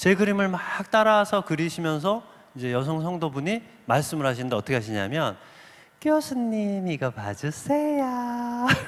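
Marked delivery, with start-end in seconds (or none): 6.0-8.7 lovely, sweet-toned, pretty voice. Retelling what a female church member in Daegu said during a class, imitating a pretty voice. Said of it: "이게 목소리도 아주 예쁘십니다".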